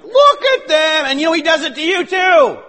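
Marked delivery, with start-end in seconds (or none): 0.0-1.1 slow, higher, louder jeer; accuser's taunt. Acted. The accuser pointing at believers, a slow loud jeer. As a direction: point and sneer at the sinners. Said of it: "the accuser is still going".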